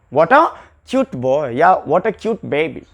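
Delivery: drawn out, each word separate; slow demo phrase. Shown as a demonstration. Teacher spelling out examples for the class, slow. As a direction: lay it out slowly.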